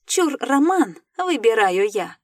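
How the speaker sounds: excited exclamation. A narrator's reading. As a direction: call dibs with gusto. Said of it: "я воскликнула".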